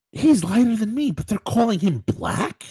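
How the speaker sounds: baffled, rising protest; incredulous objection. Retold or imitated. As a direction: question it like it's absurd. Acts out his baffled objection.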